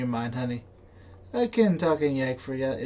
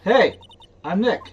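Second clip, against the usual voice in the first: louder, calling out to the camera; louder greeting; 4 semitones higher, 7 dB louder than usual. Shown as a demonstration. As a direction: speak up so the mic catches it. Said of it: "Maybe I'm not saying that loud enough".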